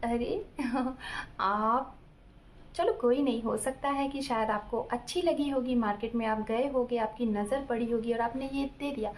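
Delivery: light laugh, then easy reassurance. Retold or imitated. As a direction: brush it off with a chuckle. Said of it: "ये बोलेगी हंस के". (हँसते हुए, हल्के-फुल्के अंदाज़ में)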